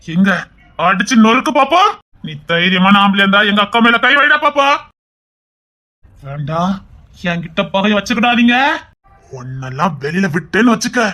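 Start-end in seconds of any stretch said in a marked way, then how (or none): 0.8-4.7 angry dare. Acted. Daring the rival to hit.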